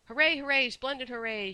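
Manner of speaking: very high, loud hurrahs; shrill cheer. A narrator's reading. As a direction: cry out in gleeful, shrill delight. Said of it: "she cried in her shrill little voice".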